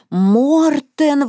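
high-pitched narrated exclamation; exclaiming. A narrator's reading. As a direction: call the name out high, no real shout. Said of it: "воскликнула Марта".

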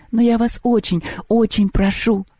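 high-pitched, mildly tearful begging; tearful plea. A narrator's reading. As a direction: beg as if starting to cry. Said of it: "заплакала Лёля".

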